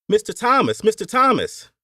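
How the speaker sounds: high, loud hail to the boss; calling out. A narrator's reading. Overseer calls out from horseback.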